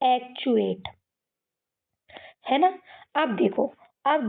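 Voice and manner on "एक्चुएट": "एक्चुएट" in parts, ek plus chew-ate; model pronunciation. Shown as a demonstration. Teacher modelling the word for kids, "एक्चुएट" with ch. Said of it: "इस word को हम कैसे पढ़ेंगे".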